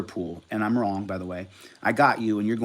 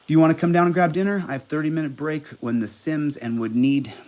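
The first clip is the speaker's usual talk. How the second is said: fast, higher and louder, overeager; a needy dog begging, rushed; quoting eager texts; 4 semitones higher, 4 dB louder than usual. Retold or imitated. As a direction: gush out the invite like a needy dog. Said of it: "he texts me again".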